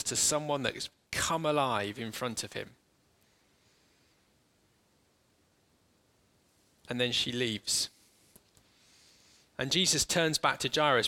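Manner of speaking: calm, unhurried scene-painting for closed eyes; walk them gently into the story; guided meditation. Acted. Leads an imaginative guided meditation.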